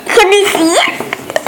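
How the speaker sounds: giggling question; laughing. Real, not acted. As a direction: ask through a giggle. Child asking, laughing.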